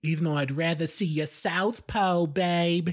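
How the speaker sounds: put-on cheeky British accent, flirting; playful put-on British come-on. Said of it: "stop doing the accent".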